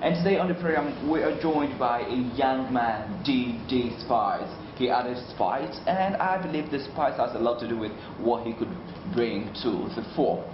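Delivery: deliberate radio presenter delivery; radio host introduction. Real, not acted. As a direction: present the guest to listeners, unhurried. Host introduces guest on air.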